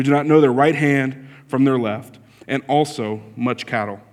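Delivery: solemn Bible reading from the pulpit; scripture reading. Acted. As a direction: read the passage with weight and care. Reads the Jonah passage aloud.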